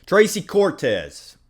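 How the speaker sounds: drawn-out high announcement of the name; plain redo. Real, not acted. Redoes the name after accent remark.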